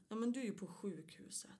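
hushed bedside whisper, no voice. Retold or imitated. Sister whispering to injured Sonja at her hospital bed. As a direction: breathe the words softly to a patient.

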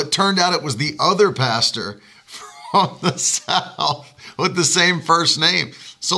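usual speaking voice

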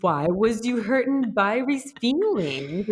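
put-on high, loud, slow crying child voice; mock-wail it like a toddler in timeout; hammed-up sobbing toddler scolding herself; imitating crying toddler. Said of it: "she's like".

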